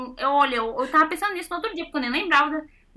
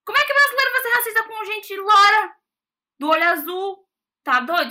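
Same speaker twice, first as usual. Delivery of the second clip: much higher and louder retold outrage; retelling how she snapped back at her friend, indignant and much higher; indignant disbelief; 7 semitones higher, 5 dB louder than usual. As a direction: scoff at the very idea. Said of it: "Eu falei".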